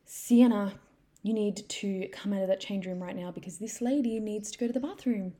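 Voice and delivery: mum calling out to her daughter, imitated; quite loud. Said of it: "she said quite loudly to her daughter".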